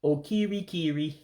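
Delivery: lilting Igbo okirikiri; Igbo word. Shown as a demonstration. Teacher modelling okirikiri for students. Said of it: "It's okirikiri".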